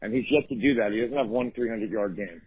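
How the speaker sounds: normal talking voice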